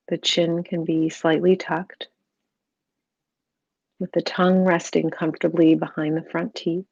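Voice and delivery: calm, even meditation voice with long pauses; guided meditation. Real, not acted. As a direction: gently guide the listener into stillness, unhurried.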